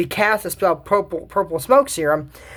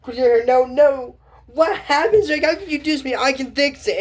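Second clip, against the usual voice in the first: panicked Cedric; 5 semitones higher than usual. Retold or imitated. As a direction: plead in a rising panic. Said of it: "I said".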